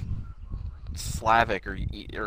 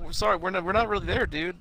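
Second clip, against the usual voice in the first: higher, softening mock apology; trying to be nice; 6 semitones higher than usual. Hutch apologizing to the angry neighbor, placating. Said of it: "Hutch is trying to be nice".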